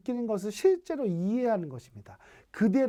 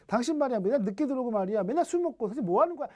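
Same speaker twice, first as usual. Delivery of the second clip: a mild mock tirade from a nagging wife, somewhat higher; angry wife; 4 semitones higher, faster than usual. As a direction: imitate the wife scolding, lightly hammed-up. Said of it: "계속 화를 내고 막 엄청나게 막 분노하고 있어요".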